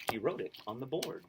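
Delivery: lively storybook read-aloud; reading to children. A narrator's reading. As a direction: read it like a picture book to kids. Reads picture book aloud.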